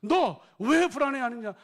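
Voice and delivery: slow, loud, drawn-out self-rebuke; rebuking his own soul. Acted. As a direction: speak each word slowly to your own heart. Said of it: "아담이 자기 자신에게 말하는 거예요".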